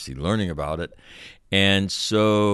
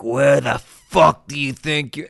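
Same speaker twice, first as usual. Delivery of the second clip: higher, louder mock drill-captain bark; mock yell; 7 semitones higher, 5 dB louder than usual. Puking captain yelling at recruits running past, mock yell. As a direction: bark it like a furious officer. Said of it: "and he's like".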